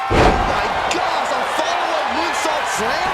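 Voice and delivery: loud, high astonished cry; amazed gasp. Real, not acted. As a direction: react like you can't believe it. Reaction to moonsault.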